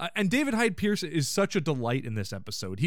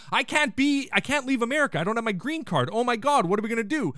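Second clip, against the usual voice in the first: higher, fretful retelling; mock panic; 6 semitones higher than usual. Host imitating Daphne stuck in Canada without papers, mock panic. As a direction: playfully imitate someone starting to panic.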